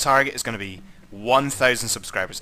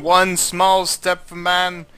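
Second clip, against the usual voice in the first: mock grand speech; 5 semitones higher, 6 dB louder, slower than usual. Parodying moon landing speech.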